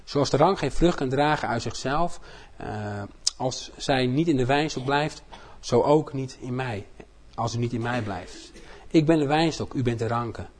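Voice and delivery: slow, solemn Bible reading; scripture reading. Acted. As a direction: read each verse deliberately. Reads John 15 aloud.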